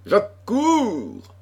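high, urgent answering shout; roared reply. A narrator's reading. Chevalier answers the girl's cry for help, roaring. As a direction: roar it out as you rush to help. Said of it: "rugit Pardaillan".

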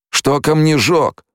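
high, drawn-out called question; shouted question. A narrator's reading. Newcomer asking about the stone burner, shouting. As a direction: call it out high and slow, rising. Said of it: "выкрикнул один из новоприбывших".

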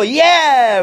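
long, mock audience "yeah"; imitated crowd cheer. Preacher retelling the audience's answer to the clown, imitated cheer. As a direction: mimic a cheering crowd without full volume. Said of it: "le gritó y dijo".

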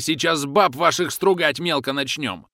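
slow, loud menacing threat. A narrator's reading. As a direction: threaten them slowly and loudly. Terrorist threatening through door. (угрожающе, медленно и громко)

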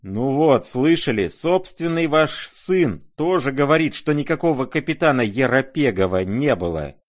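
loud, high-pitched crowing; triumphant shout. A narrator's reading. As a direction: shout it out as proof against him. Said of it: "прокричал".

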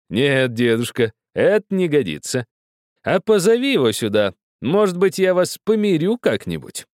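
high and loud, fighting back a laugh; host presenting the old man's request to guests, suppressing laughter; stifled laughter. A narrator's reading. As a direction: hold in the laughter while speaking. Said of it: "делая отчаянное усилие, чтобы не расхохотаться снова".

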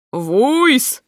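loud startled yelp; wail. A narrator's reading. Footman cries out and drops the tray. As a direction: yelp it out in shock. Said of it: "завопил Михайло".

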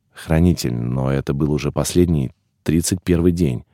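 guilty excuse. A narrator's reading. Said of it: "виновато оправдывался".

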